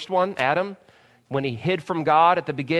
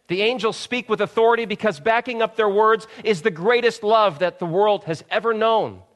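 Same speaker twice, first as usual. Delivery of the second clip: impassioned preaching; 6 semitones higher, 4 dB louder than usual. Real, not acted. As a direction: lift the room with conviction. Preaching at full force.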